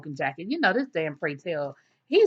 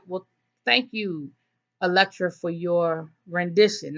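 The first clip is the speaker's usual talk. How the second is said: slow, measured faint praise; pointedly unimpressed thanks; slower than usual. Retold or imitated. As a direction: imitate a host's withholding, drawn-out thanks. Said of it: "nothing positive in that description".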